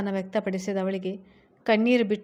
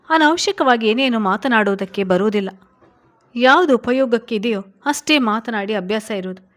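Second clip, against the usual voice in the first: louder, sharp and cutting husband; harsh retort; 5 dB louder than usual. Acted. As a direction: snap back at the wife, louder. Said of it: "ಎಂದನು ಕಟುವಾಗಿ". (ಕಟುವಾಗಿ, ಜೋರಾಗಿ ಹೇಳಿದ ಮಾತು)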